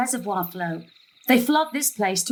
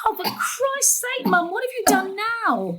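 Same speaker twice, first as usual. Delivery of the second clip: exasperated panic; 9 semitones higher than usual. Acted. Mother panicking at gran over the suppositories, high alarmed outburst. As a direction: cry out in despairing alarm.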